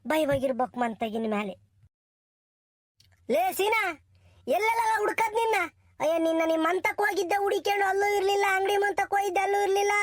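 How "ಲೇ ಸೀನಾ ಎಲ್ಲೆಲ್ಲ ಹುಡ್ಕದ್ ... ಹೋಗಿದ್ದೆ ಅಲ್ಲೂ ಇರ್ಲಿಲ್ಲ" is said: a villager yelling for Seena; calling out. Acted. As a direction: shout for the friend he searched for. Calling out to a friend.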